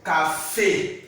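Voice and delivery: "cafe" in two measured syllables, ca-fay; final é demonstrated. Shown as a demonstration. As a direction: model "cafe" with a clear final "ay". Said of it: "Example, we have".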